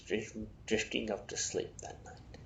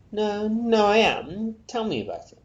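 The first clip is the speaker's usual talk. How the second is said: eager; 14 semitones higher, 10 dB louder than usual. Acted. Peter eager for bulk rate.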